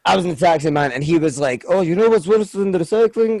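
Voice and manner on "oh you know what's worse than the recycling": higher-pitched imitation of an Afghan accent; chatty, put-on Afghan accent. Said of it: "I need to do the accent".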